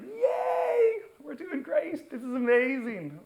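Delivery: high squealing mock cheer, way up in pitch. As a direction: cheer like giddy engineers celebrating. Mimicking team's euphoria.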